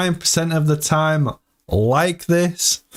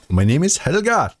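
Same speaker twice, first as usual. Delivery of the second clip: mock Swedish accent; 5 semitones higher than usual. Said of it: "You sound Swedish when you say that".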